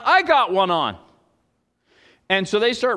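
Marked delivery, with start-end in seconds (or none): 0.0-1.0 louder rival fisherman's call; acted yell. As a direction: call out as if claiming the catch. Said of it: "another guy yells almost".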